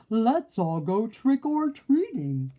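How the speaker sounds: anxious cry. A narrator's reading. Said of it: "cried one wolf".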